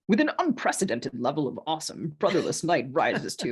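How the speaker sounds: a hint of an epic trailer announcer; lightly voiced trailer narrator; mock trailer voiceover; movie trailer voice. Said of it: "movie trailer voice".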